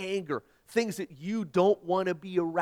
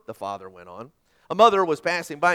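normal talking voice

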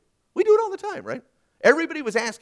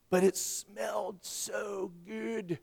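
drawn-out, softer relish; savouring; 2 semitones higher, 6 dB quieter, much slower than usual. Retold or imitated. Preacher recalling the smell of burning wood, savouring. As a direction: stretch every word out slowly, savouring it.

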